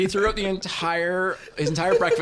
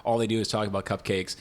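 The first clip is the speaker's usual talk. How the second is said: mock grumpy commenter; 8 semitones lower, 5 dB quieter than usual. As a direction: sneer like a cranky reviewer. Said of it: "that comment of".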